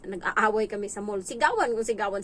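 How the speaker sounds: usual speaking voice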